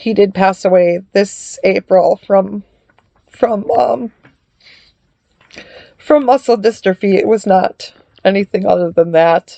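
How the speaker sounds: grieving, struggling to keep the voice steady. Telling channel viewers about their son's death: emotional. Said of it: "I'm sorry I get emotional about this".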